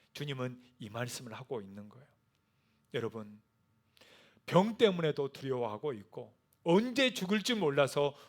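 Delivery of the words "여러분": ordinary talk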